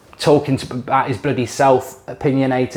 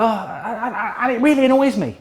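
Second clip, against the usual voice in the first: laughing in disbelief; 9 semitones higher than usual. Real, not acted. Laughing at neighbour's plan.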